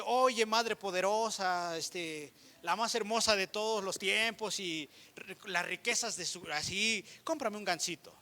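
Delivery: slow, pompous mock praise; a hammed-up grand address to mom; mock lofty prayer. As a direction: overblow it like a religious speech. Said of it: "queremos decir palabras sublimes".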